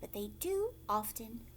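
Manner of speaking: soft whispered questions to the listener; whispered aside. Shown as a demonstration. Storyteller asking the child listening, whispered aside.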